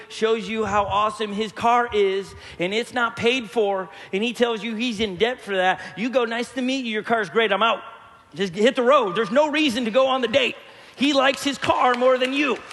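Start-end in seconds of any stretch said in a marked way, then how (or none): 6.2-12.6 louder, brisk walk-away line; firm brush-off. Retold or imitated. Pastor telling ladies how to dump a car-proud date, louder. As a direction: dismiss him and leave, pushing it out loud. Advising daughters to leave date.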